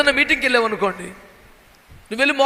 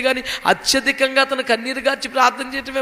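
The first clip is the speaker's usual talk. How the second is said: normal talking voice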